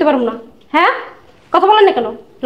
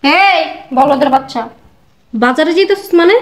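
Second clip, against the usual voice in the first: slow sneer; 5 semitones lower, slower than usual. Acted. Wife mocking husband slowly.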